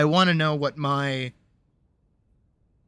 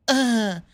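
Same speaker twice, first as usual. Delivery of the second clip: short, higher-pitched mock moan; imitated moan; 9 semitones higher than usual. Mimicking roleplay partners' lazy text replies, mock moan. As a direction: give a token mock moan. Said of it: "They moan".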